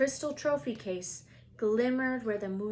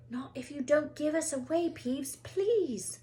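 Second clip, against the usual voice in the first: put-on higher, begging boy; pleading boy; 7 semitones higher than usual. A narrator's reading. Harry begging Peeves not to tell, higher voice. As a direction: plead with him.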